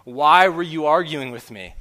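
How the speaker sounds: retold coach scolding yell. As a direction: bark the question at the player. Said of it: "began yelling at him".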